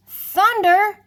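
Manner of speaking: high, loud cry of alarm; frightened shout. A narrator's reading. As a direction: yell it as the thunder rolls. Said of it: "they shouted".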